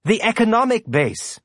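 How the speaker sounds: high-pitched, tentative objection; almost whining. A narrator's reading. Sandrani objecting to Marco's plan, almost whining. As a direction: raise the pitch into a slight whine. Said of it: "almost whined".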